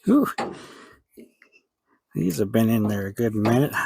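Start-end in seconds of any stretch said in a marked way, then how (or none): 0.0-0.3 a heavy whew of effort; tired exhale. Real, not acted. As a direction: blow out a tired breath. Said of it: "huffing and puffing".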